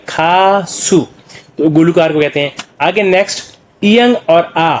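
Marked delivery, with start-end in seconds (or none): 0.1-1.1 "खासु" drawn out as two long syllables. Shown as a demonstration. Teacher showing learners what the letters make, "खासु" syllable by syllable. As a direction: sound out "खासु" slowly, part by part. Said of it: "तो क्या बन गया".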